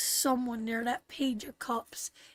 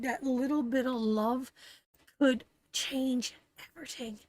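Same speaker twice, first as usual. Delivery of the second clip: choked up; 3 semitones higher than usual. Real, not acted. Reader to viewers, choked up over love changing lives. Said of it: "oh, you got me right emotional".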